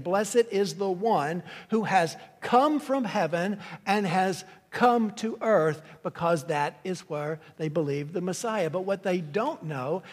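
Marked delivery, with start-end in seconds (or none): 0.0-5.8 explaining the crowd's cry with weight on "come"; crowd's meaning. Shown as a demonstration. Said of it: "That's what they're saying".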